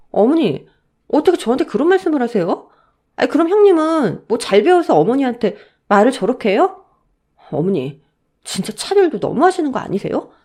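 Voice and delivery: wronged daughter-in-law answering back; aggrieved protest. Acted. Daughter-in-law protests unfair blame.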